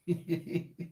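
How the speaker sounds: soft, low chuckle; real, quiet little laugh; amused chuckle. Real, not acted. Amused at being known.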